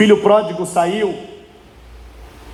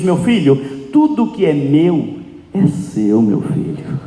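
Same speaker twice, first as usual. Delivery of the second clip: fatherly reassurance; 2 semitones lower, slower than usual. Acted. Father telling his son it is all his, reassuring.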